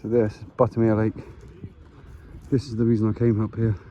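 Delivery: winded after a steep walk; breathing hard between words. Real, not acted. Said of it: "Sorry, I'm a bit out of breath".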